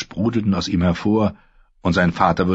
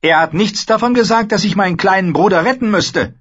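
much higher, louder sister lecturing her brother; Asha, cool and scornful; 13 semitones higher, 5 dB louder than usual. Acted. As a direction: talk down to him, sharp and sure. Asha continues.

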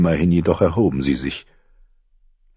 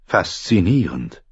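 slow mock fascination; dry Littlefinger; slower than usual. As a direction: savour the word with mock interest. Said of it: "erwiderte Littlefinger".

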